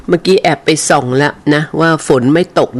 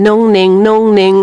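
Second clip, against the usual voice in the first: calling a pet; 5 semitones higher than usual. Real, not acted. Host calls the listener's dog on video, fond high call. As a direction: call the little dog's name fondly.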